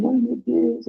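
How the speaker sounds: high-pitched mock panic; desperate. Driver who just hit your car, desperate. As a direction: act out a desperate driver's cry. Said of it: "O cara já desce desesperado".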